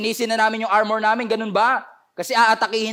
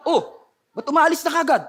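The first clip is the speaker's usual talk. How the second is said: laughing puzzlement; 5 semitones higher than usual. Retold or imitated. Jericho guard puzzled, laughing.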